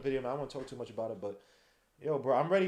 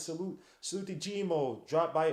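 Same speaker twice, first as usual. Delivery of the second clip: put-on Italian accent; slower than usual. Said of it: "why am I saying an Italian accent".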